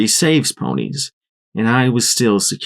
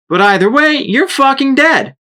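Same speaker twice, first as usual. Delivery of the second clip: shouted; 5 dB louder than usual. A narrator's reading. Shrapnel shouting a death threat at Blackjack. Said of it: "she shouted".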